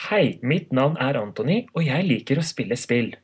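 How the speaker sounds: proper Norwegian infomercial delivery; formal announcer voice. Shown as a demonstration. Same introduction in Norwegian, formal announcer voice. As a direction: announce it with careful, lilting formality. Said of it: "I can say that in that way".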